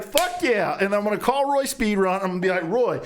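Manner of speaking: high-pitched, worked-up fantasy; mock triumphant glee; hammed-up excitement. Escalating fantasy of triumphant phone call.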